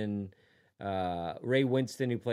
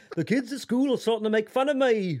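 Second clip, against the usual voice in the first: very high, put-on, fake English accent; 9 semitones higher, 4 dB louder than usual. Speaker plays a kid asking his dad for a haircut, put-on English accent. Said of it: "It's the only English accent I know".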